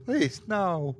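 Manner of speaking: high, thin, fragile begging; breathed, tearful plea. A narrator's reading. Crying Deb begs Tony not to, nearly voiceless. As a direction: beg in a small high breath. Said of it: "nearly voiceless".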